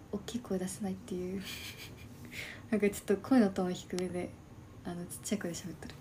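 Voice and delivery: soft hushed voice, windows open; whispery late-night streamer talk; small quiet voice. Real, not acted. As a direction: keep it down so neighbours can't hear.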